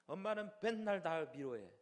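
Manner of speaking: mock a cranky kid's outburst; whiny annoyance. Young child griping at mother, acted annoyance. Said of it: "엄마한테 막 짜증을 내는 거예요".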